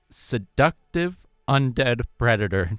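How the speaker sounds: slow, deliberate weight building to "predator"; stress on predator. Real, not acted. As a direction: draw out the phrase, landing on "predator". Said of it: "Emphasis on the predator part".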